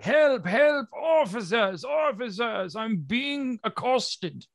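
very high, hammed-up victim wail; squealing, drawn-out mock distress; mock screaming for help. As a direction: cry out to officers in theatrical panic. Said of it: "you hear him screaming".

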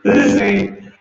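glitchy robotic audio distortion. Real, not acted. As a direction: voice warped like a broken robot. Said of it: "Chris has robot voice again".

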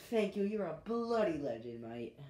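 broad Aussie thank-you; Australian accent. Shown as a demonstration. Thanking whoever subscribed, in an Australian accent. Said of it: "here's my Australian accent".

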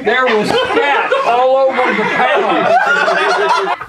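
giggling slow version; laughing through it. Acted. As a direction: crack up while saying it slowly. Retakes line laughing.

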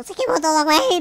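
ordinary talk, nothing marked

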